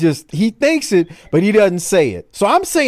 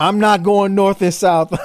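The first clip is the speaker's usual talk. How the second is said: wrestling promo; 3 semitones higher than usual. Retold or imitated. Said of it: "let's go to Flair now".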